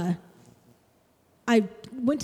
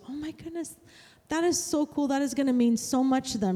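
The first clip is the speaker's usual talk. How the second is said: amazed gratitude; 5 semitones higher than usual. Retold or imitated. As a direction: voice lifts, starting hushed in amazement. Grateful mother's reaction retold.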